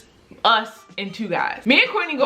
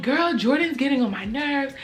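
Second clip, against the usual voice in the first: whiny venting; 5 semitones higher than usual. Retold or imitated. Venting to friend in bathroom.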